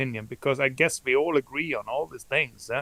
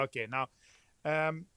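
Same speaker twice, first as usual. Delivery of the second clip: barely audible; 8 dB quieter than usual. Real, not acted. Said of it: "your voice is very low".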